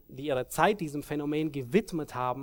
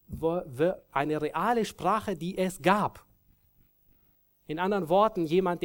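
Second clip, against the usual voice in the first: ordinary talk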